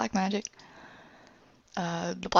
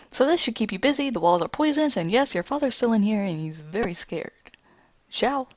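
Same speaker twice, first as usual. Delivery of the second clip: taunting villain; 3 semitones higher than usual. Acted. Ruin taunts Adele.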